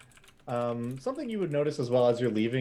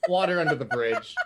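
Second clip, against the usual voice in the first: high, loud squeaky mouse; little mouse voice; 4 semitones higher, 7 dB louder than usual. Acted. The mouse forgives frog guy, high and squeaky. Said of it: "And he says".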